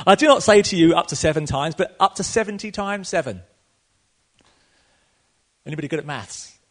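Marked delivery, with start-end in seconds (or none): 0.1-3.4 loud, declaring Jesus's words; proclaiming Jesus's answer; emphatic proclamation. Retold or imitated. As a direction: announce it to the crowd.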